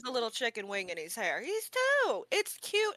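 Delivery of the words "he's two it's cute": indignant high. Real, not acted. Defending the boy's hair.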